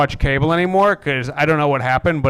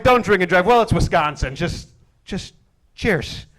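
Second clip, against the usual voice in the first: mock Wisconsin local; 3 semitones higher than usual. Comic voices Wisconsin's shrugging sign, laughing. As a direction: say it like a local who gave up.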